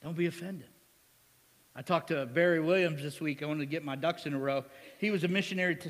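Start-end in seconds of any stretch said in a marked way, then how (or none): none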